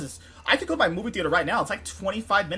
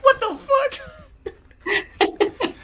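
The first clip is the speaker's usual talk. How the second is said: very high exclamation through laughter; laughing disbelief; 3 dB louder, much slower than usual. Retold or imitated. Laughing at waking in the same uniform, retold disbelief. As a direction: squeal it while cracking up.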